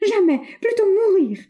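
high, loud cry of refusal; girl refusing to follow her captor; desperate defiance. A narrator's reading. Girl defying the bandit.

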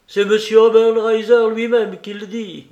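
loud, high, sustained exclamation; triumphant retort. Acted. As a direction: throw it back at him loudly. Acted triumphant retort to villain.

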